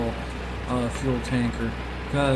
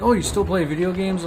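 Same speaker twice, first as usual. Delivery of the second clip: higher, louder mock-surprised question; imitated surprise; 7 semitones higher, 5 dB louder than usual. Schoolmate learning he still games, imitated surprise. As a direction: act out her surprise, voice pitched up.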